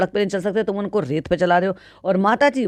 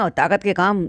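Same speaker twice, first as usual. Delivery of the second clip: ordinary talk, nothing marked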